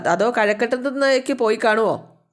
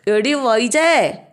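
long, drawn-out mock yell of "എടി വൈജേ", louder and higher; imitating a bellow; 4 semitones higher, 3 dB louder, much slower than usual. Old mother hollering for her daughter from bed, a drawn-out mock yell. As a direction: stretch the name out like a bedridden mother hollering. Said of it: "എന്നും പറഞ്ഞ് അലറുകയാണ്".

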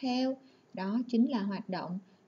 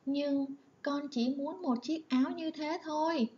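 put-on higher, whiny pouting child; sulky girl; 5 semitones higher than usual. Shown as a demonstration. Lan sulks to her mother over the coat, high pouting whine. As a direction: pout like a spoiled little girl begging. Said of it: "Lan phụng phịu".

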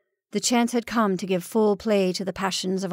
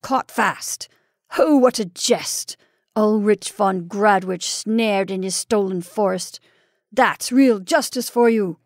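savage mockery; 4 dB louder than usual. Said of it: "And he laughed again, mocking and savagely".

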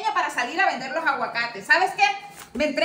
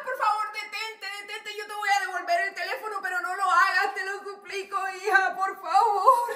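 tearful begging; 3 semitones higher than usual. Acted. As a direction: beg through tears, dragging the words. Mother begs, crying.

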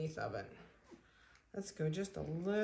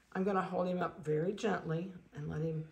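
ordinary delivery

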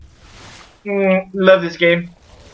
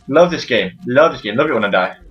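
low, sarcastic grumble; deadpan sarcasm; 5 semitones lower than usual. Real, not acted. Gamer dying again, low deadpan sarcasm.

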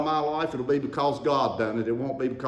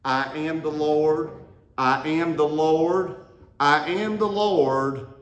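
each word laid down slowly, building louder; slow declaration; 2 semitones higher, 4 dB louder, slower than usual. Shown as a demonstration. Preacher leading the congregation in a slow declaration. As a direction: lead the congregation in saying it slowly. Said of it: "Say that with me".

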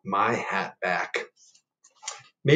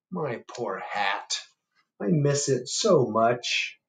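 sad bear; 6 semitones higher, 5 dB louder than usual. Acted. Bear lamenting his lost hat, mildly sad.

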